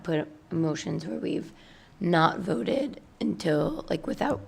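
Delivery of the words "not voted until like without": losing her voice, rough and strained; hoarse, fading voice. Real, not acted. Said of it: "I'm losing my voice here".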